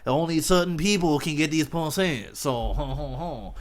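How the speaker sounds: hammed-up chuckling store owner; jolly laughing shopkeeper. Shopkeeper chuckling as he answers Oprah, hammed up. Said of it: "this guy goes".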